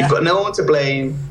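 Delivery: ordinary talk, nothing marked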